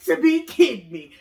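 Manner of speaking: high then loud exasperation; he sees the flooded bathroom; exasperated boyfriend. Retold or imitated. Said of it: "He was like".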